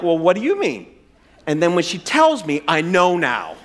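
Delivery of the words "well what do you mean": mild, evasive counter-question; deflecting husband. Acted. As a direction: toss the question back at normal pitch. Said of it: "I'd be like".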